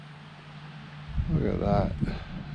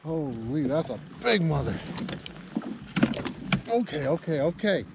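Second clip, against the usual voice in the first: shakily calming oneself down; 5 dB quieter than usual. Real, not acted. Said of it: "calm down".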